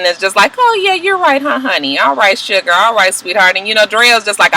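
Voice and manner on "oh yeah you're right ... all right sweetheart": condescending. Retold or imitated.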